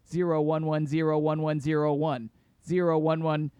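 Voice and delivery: monotone robot reading binary. Pretend. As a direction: read the digits like a machine. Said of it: "here's my podcast-obot's review of Automata in binary".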